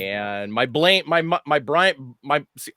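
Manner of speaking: tripping over the words my, my, my; stuck repeating the word my before the name; stuttering. Real, not acted. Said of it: "I'm stuttering".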